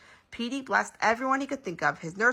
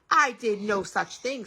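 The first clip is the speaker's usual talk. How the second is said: slow, emphatic objection; stretched protest; indignant denial; 3 semitones higher, 4 dB louder, slower than usual. A narrator's reading. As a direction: object firmly, word by word. Father objects to the story.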